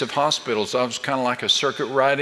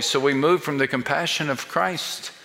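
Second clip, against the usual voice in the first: ordinary talk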